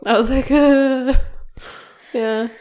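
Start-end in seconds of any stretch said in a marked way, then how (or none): 0.5-1.1 short pitched-up mock sob; playful crying noise; mock bawling. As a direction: imitate welling up with a whimper. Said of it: "It's bawling".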